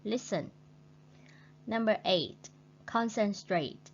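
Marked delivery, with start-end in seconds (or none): 0.0-0.5 LISten with the first syllable stressed. Shown as a demonstration. Teacher repeating listen with stress on LIS. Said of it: "stress on the first syllable". 2.9-3.9 CONcentrate with the first syllable punched; stress on first syllable. Shown as a demonstration. Teacher modelling concentrate with stress on CON. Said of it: "stress on the first syllable".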